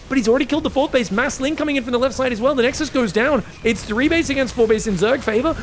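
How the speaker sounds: ordinary talk, nothing marked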